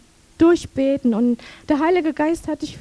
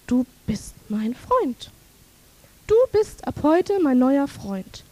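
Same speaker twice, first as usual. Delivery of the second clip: tender; slower than usual. Retold or imitated. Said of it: "dieser Satz von innen so hoch".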